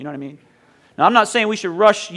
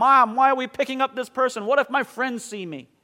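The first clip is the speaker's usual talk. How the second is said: upset, protesting tone with raised pitch; 5 semitones higher, 4 dB quieter than usual. Acting out your younger self complaining to your mom, retelling an upset complaint. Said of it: "I got so upset at my mom".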